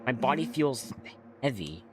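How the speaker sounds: lightly acted, puzzled game monologue; story narration. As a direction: read the groggy hero's thoughts like a story. Reads game monologue aloud.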